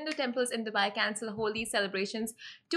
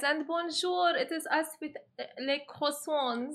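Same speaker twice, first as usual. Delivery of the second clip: mock French; 4 semitones higher than usual. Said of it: "impress you guys too much with our accents".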